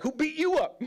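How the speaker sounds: high, loud comic question; retold alarmed astonishment. Brother to injured man coming out of the room, comic shock. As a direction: imitate a shocked brother demanding to know. Brother reacts to marked face.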